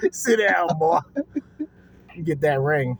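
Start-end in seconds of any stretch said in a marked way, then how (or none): 0.1-1.0 mock Biden quote. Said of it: "Joe Biden just said".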